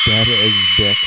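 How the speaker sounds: Dead as dicks shouted out like a book title. Shown as a demonstration. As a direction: proclaim it loud, as a title. S1 proclaims it as a title.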